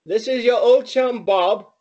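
chummy imitation English accent; mock British accent; put-on British accent. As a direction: try out a British accent on an old chum. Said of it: "with a very good accent".

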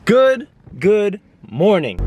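slow, sing-song good morning; drawn-out greeting. Real, not acted. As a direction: stretch the greeting out. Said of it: "drawn-out greeting".

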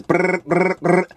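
lips buzzed to copy a rattling panel; imitated rattle. Showing viewers the rattle in his trunk, mock metal buzz. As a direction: buzz it out like loose metal slapping together. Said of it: "So you hear this".

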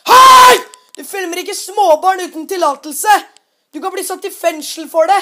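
the father's furious rebuke, slowed down; angry shout. Retold or imitated. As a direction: scold a grown man for bullying kids. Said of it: "sier han faren til Philip".

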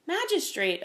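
mild, high-pitched coaxing; kinder. A narrator's reading. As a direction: appeal kindly to a superior. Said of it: "seemed a little kinder".

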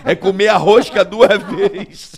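slow loud laughing punchline. Real, not acted. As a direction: laugh through the dirty joke.

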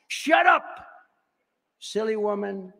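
high, loud sneering snake shout; grinning snake. Acted. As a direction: snap at the woman like a gloating snake. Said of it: "said the reptile with a grin".

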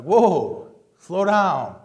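angry politician. Retold or imitated. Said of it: "It's like".

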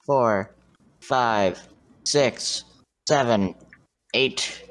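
counting seconds. Real, not acted. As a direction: tick off each number evenly. Counting the head start aloud.

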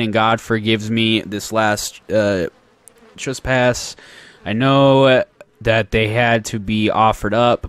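put-on letter read in a light Southern accent; slightly Southern-accented letter reading. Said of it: "doing the southern accent".

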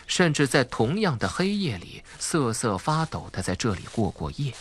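usual speaking voice

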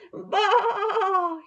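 high, loud lamb bleat; frightened lamb calling out high; lamb bleating loudly. Acted. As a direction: bleat out like a lost little lamb. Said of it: "he cried".

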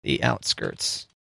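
very low, slow, quiet ghoul. Pretend. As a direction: drag it out like a ghoul. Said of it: "I couldn't stop myself".

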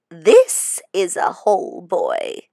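a sly, smirking whisper. Acted. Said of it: "she smirks".

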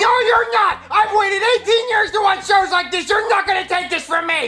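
whiny wailing shout; crying tantrum. Acted. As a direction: throw a bratty tantrum. Jeffy throws tantrum over TV.

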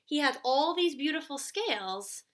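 put-on expressive read-aloud for young kids; storybook reading. A narrator's reading. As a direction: read the story to children, a little animated. Teacher reads storybook aloud.

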